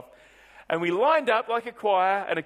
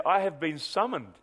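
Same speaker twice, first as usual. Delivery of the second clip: pompous voice; 2 semitones lower than usual. Retold or imitated. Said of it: "In a rather pompous voice".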